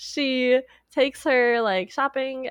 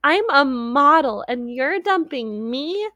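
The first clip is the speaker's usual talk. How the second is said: mock upset; 4 semitones higher, slower than usual. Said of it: "she gets so upset".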